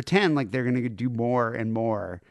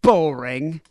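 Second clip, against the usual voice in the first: bored drawl; 3 semitones higher, 6 dB louder, much slower than usual. Retold or imitated. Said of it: "He reminds me of Rick Mayall".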